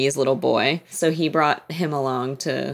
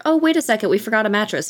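higher-pitched pretend oops; mock sudden realization; 6 semitones higher, faster than usual. Wife stalling her eager husband over a mattress, mock realization. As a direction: jump up in pitch as if just remembering.

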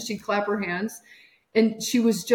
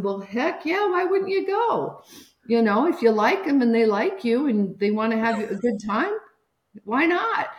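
enthusiastic encouragement; 2 semitones higher than usual. Retold or imitated.

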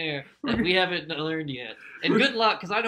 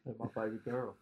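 quiet lowered Southern movie voice; Nicolas Cage Southern accent; 7 semitones lower, 13 dB quieter than usual. Acted. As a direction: mumble it as a Southern action hero. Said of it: "same voice he used in Con Air".

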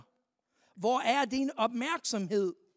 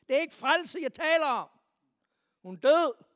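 louder, higher, desperate insisting; insistent shout; 4 semitones higher, 8 dB louder than usual. Acted. Father correcting Jesus that his girl is dead, loud insistence. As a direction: push back hard, frantic father.

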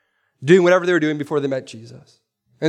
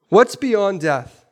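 slower, higher repeat; much slower than usual. Shown as a demonstration. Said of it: "the question ... is this".

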